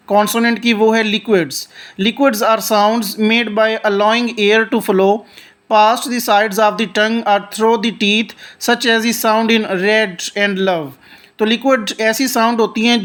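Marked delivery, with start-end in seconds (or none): 2.0-10.9 reads each English word slowly and deliberately; slow textbook reading. Shown as a demonstration. Teacher reading the definition aloud to students, slow and deliberate. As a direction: read it out like a careful textbook recitation.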